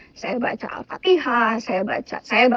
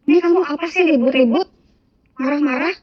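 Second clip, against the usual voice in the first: higher, louder, rapid complaint; irritated mother; 3 semitones higher, 4 dB louder, faster than usual. Retold or imitated. Mother woken at dawn scolding her child, irritated and quick. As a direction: scold quickly, retelling a parent's annoyance.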